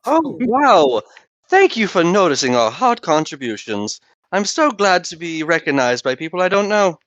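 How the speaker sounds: mock grateful, dripping sarcasm; high, sarcastic gushing. Sarcastic thanks to NPC.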